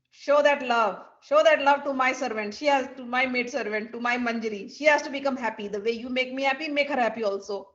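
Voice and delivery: loud, emphatic acted order; insistent command. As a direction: press the request firmly, as a mistress. Acted mistress instructing Krishna.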